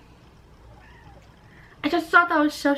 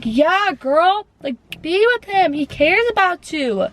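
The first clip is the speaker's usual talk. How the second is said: cheering on a friend; 5 semitones higher, slower than usual. Retold or imitated. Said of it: "And I'm like".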